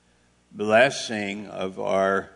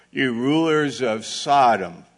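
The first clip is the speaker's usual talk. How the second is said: lightly acted rebuke, louder on the address; a hint of divine denunciation, voice raised; God; 3 semitones higher, 6 dB louder than usual. God addressing the rulers in Maryland, lightly acted loud rebuke. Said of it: "like God speaking to the United States".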